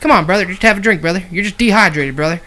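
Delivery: mock pleading, slowing and laughing at the end; a light imitation of a pleading politician. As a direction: beg him gently not to die, hammed up. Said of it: "the politician's like".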